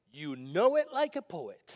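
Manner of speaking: a hint of brother Orlando's street saying; little brother's phrase. Pastor imitating his little brother's catchphrase, lightly voiced. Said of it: "how he likes to say".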